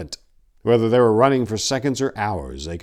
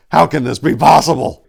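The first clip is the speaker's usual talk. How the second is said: disbelief; 8 semitones higher, 12 dB louder than usual. A narrator's reading. Disbelief amid carnage.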